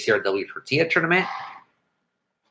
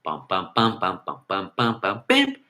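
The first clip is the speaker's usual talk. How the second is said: imitated drums; 5 semitones lower, 5 dB quieter than usual. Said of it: "It goes".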